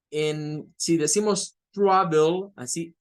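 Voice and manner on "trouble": "trouble" slowed, syllables set apart for learners; stress on last syllable. Shown as a demonstration. Teacher explaining British spelling rule, "trouble" modelled slowly and deliberately. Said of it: "la fuerza de voz es en la última sílaba".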